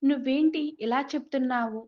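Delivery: పోలీసుల మెత్తని అరుపు; mild mock shout. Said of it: "గట్టిగా అరిచారు".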